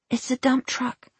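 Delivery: put-on high little-boy voice; small boy. Small boy showing John his truck, high and childlike.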